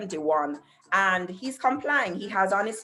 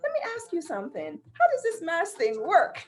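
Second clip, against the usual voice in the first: kindly asking; 7 semitones higher than usual. Retold or imitated. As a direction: raise the pitch and ask it gently, innocently. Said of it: "So then I kindly said".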